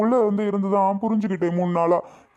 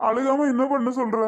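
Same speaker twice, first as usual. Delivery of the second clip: higher, tearful complaint to his wife; acted crying; 5 semitones higher than usual. Jailed husband answering his wife's question about his crying, tearful. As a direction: play a mildly weepy husband. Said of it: "ஏங்க அழுகுறீங்க".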